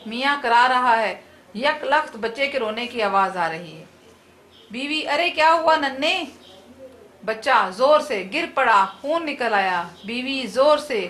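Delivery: lively comic play read aloud with light character voices; comic drama read for students; dramatic reading. Acted. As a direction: read the play to the class, bringing husband and wife to life. Teacher reads a comic drama aloud.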